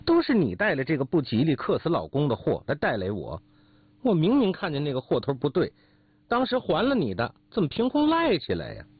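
heated protest climbing high in pitch; quarrelsome, increasingly high-pitched indignation; loud accusation. Acted. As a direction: hurl the blame back, pitch mounting. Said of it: "保父也大声说".

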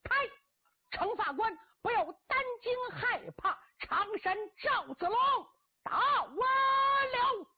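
high, loud battle shout, drawing the last words out. Acted. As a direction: bellow across the field like a general. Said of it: "高声断喝".

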